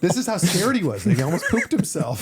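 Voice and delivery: said through laughter; can't keep a straight face; real laughing tease. Real, not acted. Host laughs at the story.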